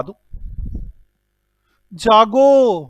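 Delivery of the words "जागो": drawn-out wake-up call; stretched, raised teacher's call. Real, not acted. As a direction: call out to rouse the class. Teacher rousing a dozing class.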